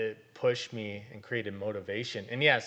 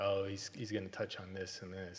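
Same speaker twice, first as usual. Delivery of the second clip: mock whisper, quieter; 2 semitones lower, 9 dB quieter than usual. Retelling sitting in church, whispering in her ear: retelling a whisper. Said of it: "I would whisper in the ear".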